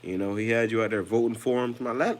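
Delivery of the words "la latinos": high squeaky mock chant, much higher and louder; mocking Trump fans. Mocking Latino Trump supporters at a rally, squeaky high chant. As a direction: squeal it like a cartoon fan at a rally.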